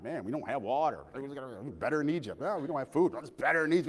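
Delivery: mock whine of grumblers; whining complaint.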